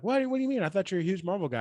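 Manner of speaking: high, incredulous mock surprise; shocked hairdresser. Hairdresser stunned he dislikes new Marvel, high mock shock. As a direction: act floored by the answer. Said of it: "She's like".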